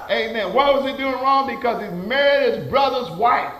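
forceful pulpit storytelling; punchy sermon delivery; emphatic preaching. Real, not acted. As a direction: drive the story home to the congregation.

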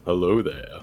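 mock silky seductive hello; sexy voice. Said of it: "it's only fair that I do a sexy voice".

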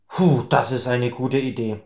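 a light relieved sigh on the words. A narrator's reading. Tipsy Max sighs as he joins the stranger. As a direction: breathe out the line, a touch relieved. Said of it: "seufzte Max".

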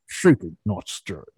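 botched Scottish accent in a Bond line; Scottish accent barely attempted, mostly own voice; failed Scottish accent. Shown as a demonstration. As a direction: try a Scottish accent and miss. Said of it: "A Scottish accent eludes me".

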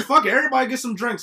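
laughing through the words; high, giddy laughing quote. Retold or imitated. Retelling buying drinks after win.

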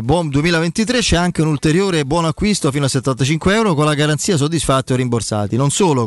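upbeat sponsor read; infomercial. Acted. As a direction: read it like a radio ad. Host reads sponsor ad.

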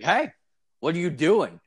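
calling out. Retold or imitated. Security guard calling out.

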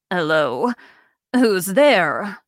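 lightly voiced old woman calling out; a hint of an old granny calling from another room; elderly woman voice. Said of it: "An elderly female voice ... calls".

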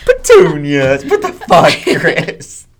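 very high, loud disbelief; incredulous outburst. Real, not acted. Host reacting to co-host's silly accent, incredulous outburst. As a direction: squawk it, scandalized by what you heard.

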